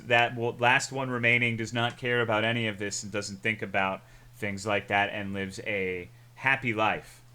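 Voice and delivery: ordinary talk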